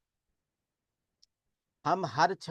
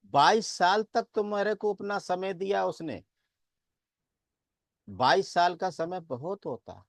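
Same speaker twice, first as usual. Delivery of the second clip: emphatic remonstrance; 6 semitones higher than usual. Retold or imitated. Monk tells grieving villagers to celebrate, emphatic remonstrance. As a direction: press the point insistently in a raised pitch.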